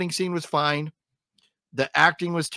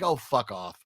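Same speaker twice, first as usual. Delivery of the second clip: soft, whispered brush-off under the breath; retold whisper; 5 semitones lower, 6 dB quieter than usual. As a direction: breathe it out like a fed-up viewer muttering at the screen. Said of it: "I was like".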